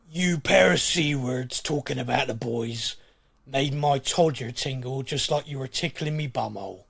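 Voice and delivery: put-on gruff cockney Butcher from The Boys. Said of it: "I have to read this in a butcher voice".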